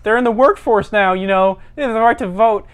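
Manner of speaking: high, halting mock protest; indignant meek caller. Bullied caller lecturing Chad on women, high indignant protest.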